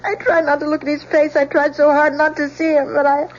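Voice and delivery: sobbing confession to her father; distraught daughter tearfully tells her father; crying. Acted. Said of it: "Please don't cry".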